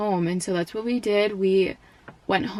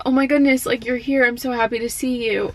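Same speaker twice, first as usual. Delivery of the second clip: mild surprise; 4 semitones higher, 4 dB louder than usual. Retold or imitated. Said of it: "like, all surprised again".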